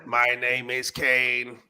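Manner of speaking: slow, heavy wrestler promo voice; lightly voiced wrestler taunt, slow; Kane impression. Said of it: "Sound like fucking Kane".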